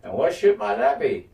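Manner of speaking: high mock sly question; lightly voiced smug lord; a hint of a smug villain; imitating a sly voice. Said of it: "you hear a voice go".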